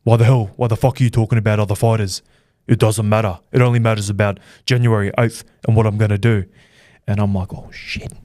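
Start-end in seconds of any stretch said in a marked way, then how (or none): 0.0-6.4 mock fighter's rant. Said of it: "He goes". 7.5-8.1 breathless whispered curse; whispered oh shit. Retold or imitated. Rattled interviewer whispers to himself in fear.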